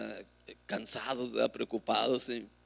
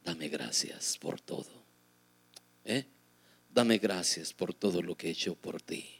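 gentle voice of God; 6 semitones lower, 6 dB quieter than usual. Retold or imitated. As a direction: speak softly as God, unhurried and lower. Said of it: "su preciosa voz que me dice".

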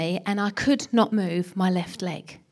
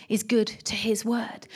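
whisper; 6 dB quieter, slower than usual. Real, not acted. Preacher drops voice on a promise.

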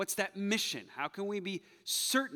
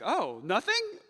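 mock surprise; 5 semitones higher, 4 dB louder, slower than usual. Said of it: "Isaiah's like".

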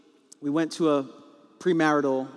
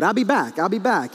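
mock escaping husband, slightly raised pitch; hasty getaway; 3 semitones higher, 3 dB louder than usual. Husband escaping an upset wife, mock hasty exit. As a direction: toss it out as you flee. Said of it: "get out of there mode".

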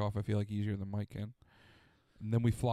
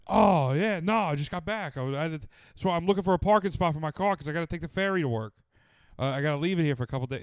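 lightly hammed-up New York talk, a bit higher; retelling Mike chatting in New York accent; 5 semitones higher, 4 dB louder than usual. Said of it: "His accent comes out sometimes".

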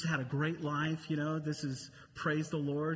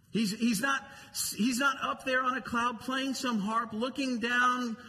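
raised preaching voice; 5 semitones higher than usual. Real, not acted. Preacher denies distant God.

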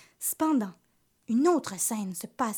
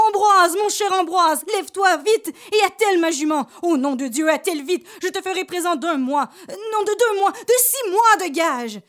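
put-on old priest shouting high and loud in panic; frantic cry; 7 semitones higher, 7 dB louder than usual. Startled priest waking his servant Ambroise, frantic high shout. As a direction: yell for the servant to hurry, desperate. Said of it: "en lui criant".

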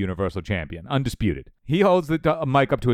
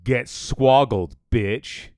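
wrestling promo; 3 dB louder, much slower than usual. Pretend. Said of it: "he then says".

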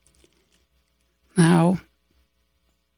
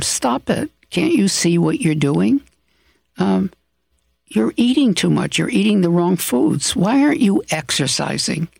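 exasperated pleading; 3 semitones higher than usual. Acted. Telling someone you love to stop harming themselves, exasperated pleading. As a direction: plead with them, exasperated and a little hurt. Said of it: "you're saying it not so emotionally".

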